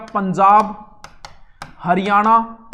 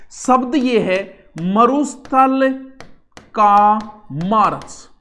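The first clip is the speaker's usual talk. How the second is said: slow, stressed term; 4 dB louder, much slower than usual. Shown as a demonstration. Teacher stresses a new term.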